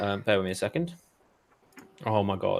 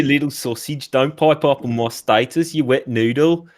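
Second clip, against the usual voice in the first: badly faked Birmingham accent; bad Brummy accent; 3 dB louder than usual. Shown as a demonstration. Host rereading Stu's reply on request, bad Brummy accent. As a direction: have a clumsy go at Brummy. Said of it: "That's terrible".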